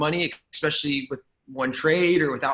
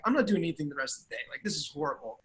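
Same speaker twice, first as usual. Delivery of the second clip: depressed; 7 dB quieter, faster than usual. Retold or imitated. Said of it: "I'm all depressed".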